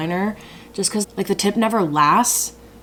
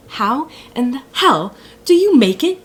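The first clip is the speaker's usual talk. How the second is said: higher, louder exasperated question; frustrated; 9 semitones higher, 7 dB louder than usual. Real, not acted. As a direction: demand it in real frustration. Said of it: "I'm getting so frustrated".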